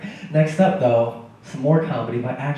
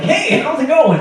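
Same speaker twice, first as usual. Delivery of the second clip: put-on failed Indian accent; 12 semitones higher, 7 dB louder, slower than usual. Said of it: "I tried to do an Indian guy".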